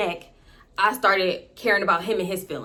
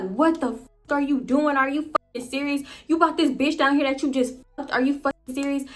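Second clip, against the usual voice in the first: raised-pitch retold confrontation; higher, heated demands at her boyfriend; going off; 4 semitones higher than usual. Girlfriend confronting boyfriend about the other woman, heated. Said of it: "I start going off immediately".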